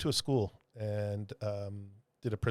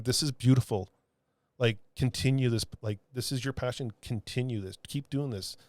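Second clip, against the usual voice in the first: sincere encouragement. Retold or imitated. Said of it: "And I'm telling her".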